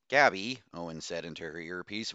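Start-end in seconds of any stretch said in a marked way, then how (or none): 0.1-0.6 calling out. A narrator's reading. Calling over the earpiece.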